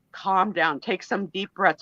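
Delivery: low, soft calming order; soothing anesthesiologist. Retold or imitated. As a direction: quietly talk the patient down. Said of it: "She said".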